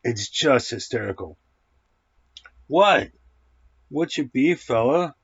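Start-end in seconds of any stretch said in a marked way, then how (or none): 2.7-5.1 higher, louder teasing call to the pet; playful talk to the cat. Real, not acted. Reviewer turns to his pestering cat, playful and higher. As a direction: tease the cat that's pestering you.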